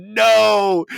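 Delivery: high, loud, drawn-out "no"; mock group groan. Players rejecting the game master's pun, mock groaning loudly. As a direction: wail it like an appalled table of players. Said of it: "my players groaned in unison".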